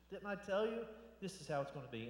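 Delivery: hammed-up "told you so", mildly testy; theatrical exasperation. Jesus answering her doubt about the stone, theatrically impatient. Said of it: "a lot more nicer than my theatrics express".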